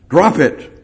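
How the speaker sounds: preacher urging "Drop it"; emphatic command. Acted. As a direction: punch out "Drop it". Emphatic repeat.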